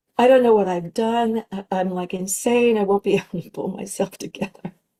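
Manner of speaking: distraught, tearful voice, speaking through tears. Retelling a phone call made the night before filming: imitating tearful speech. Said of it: "called my mother in tears and said".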